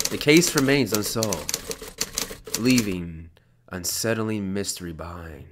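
measured reading of an eerie epilogue; story narration. Acted. Player reads the horror game's ending, measured narration.

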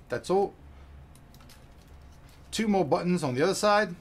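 gruff hammed-up pirate voice; pirate accent. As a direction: growl it like a pirate. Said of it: "to do that crazy accent anymore".

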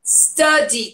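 "Study" with its U sounding like E. Shown as a demonstration. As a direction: model "Study", first vowel E-like. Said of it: "som de E".

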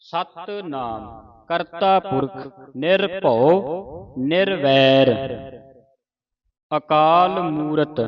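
slow, stretched syllables; scripture recitation. Shown as a demonstration. Teacher modelling the opening verse for students, slow recitation. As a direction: recite each sacred word deliberately, vowels held.

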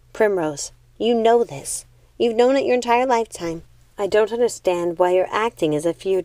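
steady, firm eldest sister; calm authority, no room for debate; calm and resolute. Acted. Eldest sister settles the argument, calm and resolute. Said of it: "how calmly and resolutely she spoke".

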